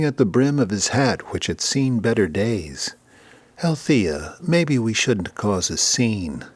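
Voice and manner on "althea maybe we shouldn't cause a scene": nervous husband. Acted. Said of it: "Buford Wilton fidgeted nervously".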